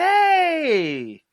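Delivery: loud, high-pitched drawn-out holler; mock shout. Acting out when Bishop pulled up, mock shouted hail. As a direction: holler it like pulling up on somebody. Retelling Bishop suddenly pulling up.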